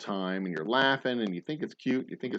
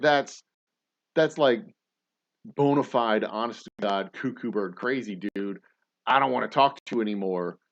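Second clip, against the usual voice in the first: mock alarmed disbelief. You push back against the believer, alarmed and fed up. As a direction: recoil from the nonsense, fed up.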